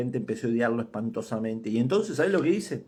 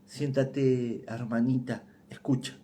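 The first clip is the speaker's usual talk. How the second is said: stammering; 3 dB quieter, slower than usual. Acted. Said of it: "balbuceó".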